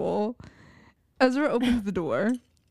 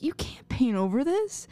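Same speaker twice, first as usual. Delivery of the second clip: soft whispered quote; 4 semitones higher than usual. Retold or imitated. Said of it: "the way that he's just like".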